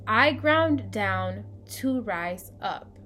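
slow, measured affirmation for listeners to repeat; slow recited mantra. Shown as a demonstration. Host leading listeners through root chakra mantras, slow recitation. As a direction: recite slowly, leaving long pauses to echo. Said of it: "So repeat after me".

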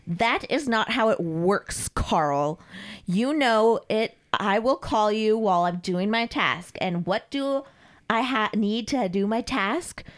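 slow, scolding dominatrix; imperious mistress. Acted. Mistress lectures Carl on her rules, imperious. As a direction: spell it out slowly for a fool.

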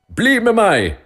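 high, loud furious command; angry shout. A narrator's reading. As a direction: order them along in a rage. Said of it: "skrek den rike mannen sint".

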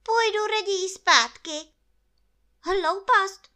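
high, loud, vexed character voice; cross bear. A narrator's reading. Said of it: "zlobil se Pů".

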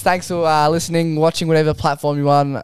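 slightly lifted video sign-off; chatty YouTuber wrapping up for the lads; YouTube outro. Shown as a demonstration. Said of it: "show him how you would end a YouTube".

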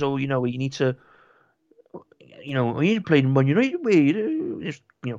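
a hint of a bad Irish accent, rising on the end; half-hearted Irish pundit impression; crappy Irish accent. Mocking Roy Keane's punditry in a bad Irish accent. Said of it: "crappy Irish accent that I've got".

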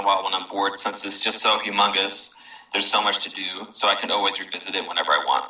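talking while chewing; mouth full. Real, not acted. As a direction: speak around a mouthful of food. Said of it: "Sorry, I'm eating".

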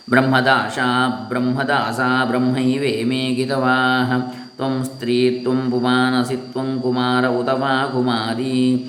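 slow, measured Sanskrit chant; scripture recitation. Acted. Teacher reciting a Vedic verse to listeners, slow chant. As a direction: intone the verse slowly, syllable by syllable.

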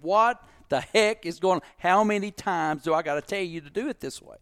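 exasperated boss telling off a worker, imitated; jacked up. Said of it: "got a little willy linebacker jacked up".

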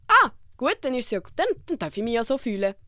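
a squeal of relief that calms down; mock relief. Herself relieved that friends validate her, mock relieved. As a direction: sigh out the relief, half joking.

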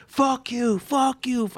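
high, loud mock yell at the crowd. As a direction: bark it at everybody like a ranting open-micer. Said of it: "start yelling at everybody".

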